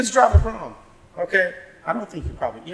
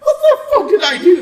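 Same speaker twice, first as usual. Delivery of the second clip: retold disbelief; 9 dB louder than usual. Retold confronted by coworkers.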